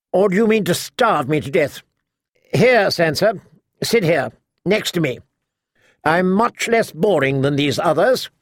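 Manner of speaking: lightly voiced outspoken noblewoman; a hint of a tart matriarch, gossiping; sharp-tongued old lady. Lady Alina on the noble houses, lightly voiced sharp old lady.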